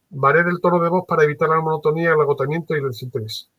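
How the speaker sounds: flat, rushed, fast read; monotone. Shown as a demonstration. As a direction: rattle it off in one tone. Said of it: "Lo voy a decir ahora, pues, monótono".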